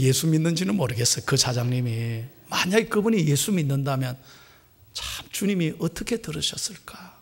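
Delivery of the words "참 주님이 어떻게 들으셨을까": whispered question; hushed wonder. Acted. Pastor wondering how the Lord heard it, whispered. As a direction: breathe it softly as a musing.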